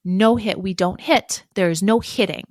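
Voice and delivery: strict parent setting a limit; firm scolding. Shown as a demonstration. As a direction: lay down the rule, clipped and firm. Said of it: "The other response might be".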